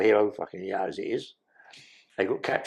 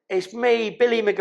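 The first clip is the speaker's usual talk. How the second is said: Billy's higher voice; 10 semitones higher than usual. Retold or imitated. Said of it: "I've got to say it".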